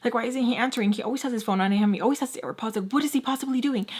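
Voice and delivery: mock worried spiral, speeding up in bursts; anxious inner voice. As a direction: imitate a panicky little inner self, starting in a breath. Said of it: "little Lex will come through".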